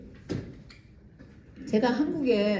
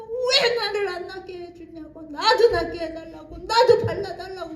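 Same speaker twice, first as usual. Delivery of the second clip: mock angry demand; 6 semitones higher, 3 dB louder than usual. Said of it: "막 화를 내면서 막 욕을 하면서".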